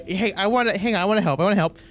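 eager clerk. Acted.

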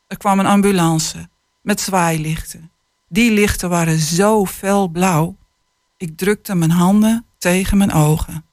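put-on calm, measured reading of a children's book; unhurried storytelling voice; story reading. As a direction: read it like an author sharing a tender chapter. Author reads passage aloud.

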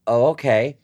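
startled, breathless oh okay; stunned. Retold or imitated. Stunned reply to medium.

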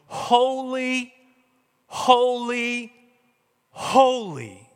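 high, ringing, drawn-out call; threefold proclamation. Acted. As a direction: intone each word, held long and falling at the last. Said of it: "three times over going".

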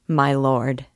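slow and grave, bowing to a lord; humbly, weighing each word; a hint of a grave, submissive servant. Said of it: "in grave, submissive tones".

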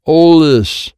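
loud, high shout; shouted order. A narrator's reading. Child handing Wyatt a card, shouted order. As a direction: shout "hold this" as an urgent order.

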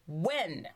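WHEN alone, low and falling; pause after WHEN. A narrator's reading. Drakestail sings his demand, pausing after WHEN. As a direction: set WHEN apart, then wait. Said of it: "with a pause".

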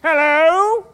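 high loud crab voice. Acted. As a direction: squeak out like a crab. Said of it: "do I gotta do that voice now".

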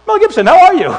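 high, excited mock hello; starstruck greeting. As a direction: greet the star with hammed-up delight. Acts out his own starstruck greeting.

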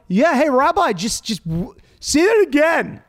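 mock crowd heckle, calling up to the stage; teens calling out. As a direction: egg the rabbi on to repeat it. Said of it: "they're like".

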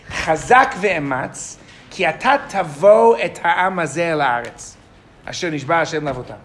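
slow, deliberate reading of the verse, word by word; read slowly. Shown as a demonstration. Teacher reads the verse slowly so students catch the difference. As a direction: take each word slowly so the class hears it. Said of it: "Now I'm gonna read them slowly".

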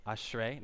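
"Ashrei" said as AHSH-ray for repeating; Hebrew pronunciation. Shown as a demonstration. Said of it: "Can you guys say that with me".

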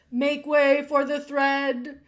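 town-crier style shout, drawn out; crying out. A narrator's reading. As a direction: call out to clear the way. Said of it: "cried a mouse".

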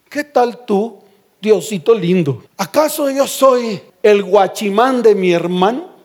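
lightly acted proud, cocky retort; mildly haughty Cain. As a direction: answer back with a touch of arrogance. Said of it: "todo altivo y orgulloso".

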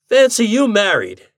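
a hammed-up exclamation of disbelief; exclaiming. A narrator's reading. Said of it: "he exclaimed".

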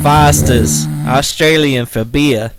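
loud, slow commercial voice; beer ad announcer. Pretend. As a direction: sell the beer like a TV ad. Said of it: "let's hear your best didgeridoo impersonation".

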